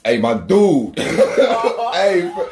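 big, punchy mailman's hello; hyped-up imitation of an eager mailman; high-energy greeting. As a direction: greet a stranger with over-the-top enthusiasm. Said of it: "came with a hundred and fifty percent energy".

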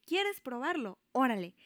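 mock exasperated offer; exasperated giving-in. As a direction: give in, fed up, in a retold quote. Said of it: "me exasperó tanto".

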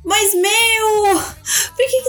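high-pitched mock wail of disbelief; hammed-up despairing complaint to a clueless friend; exasperated retold protest. Acting out friends' exasperated reaction.

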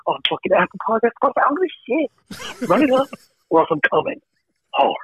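bully the listeners into hitting play; a comically threatening podcast plug; mock aggressive spiel. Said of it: "I'll do it in a whisper voice".

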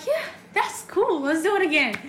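put-on high, eager child; excited kid. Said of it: "So I was like".

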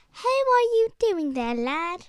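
put-on British accent. Guest trying out a voice, playful British accent. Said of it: "talk in a British accent".

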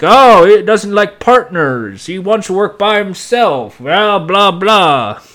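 mocking singsong, trailing into blahs; imitated gossiping cops. Cops gossiping about their partner-shy colleague, mocking. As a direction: rattle off office gossip mockingly. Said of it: "the people at the cops are like".

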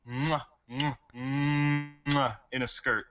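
kissing fingertips, swooning; excited anime fan. Real, not acted. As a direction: gush with lip-smacking kisses. Chef's kiss over favorite character.

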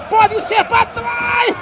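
screaming goal call, drawn out; explosive goal commentary. Real, not acted. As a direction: yell the goal, stretching every word. Live goal call, Lewandowski scores.

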